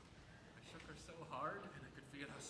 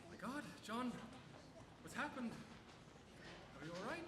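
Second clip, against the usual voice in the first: higher, alarmed wife; wife's alarm; 5 semitones higher than usual. Retold or imitated. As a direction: voice her sudden worry, pitched up. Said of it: "she says".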